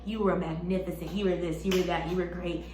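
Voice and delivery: soothing. Retold or imitated. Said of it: "they're like".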